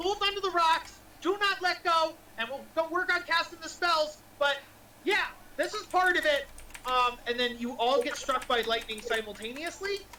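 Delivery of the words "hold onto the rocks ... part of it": put-on doddering old man voice, shouting. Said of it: "the Wizard of Avernus yells".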